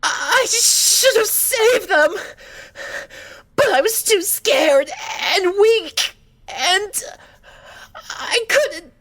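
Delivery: high, slow, sob-broken lament; sobbing. Acted. Fluttershy confesses her guilt to the doctor, sobbing high and slow. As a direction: weep through every word. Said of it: "racked with her violent sobs".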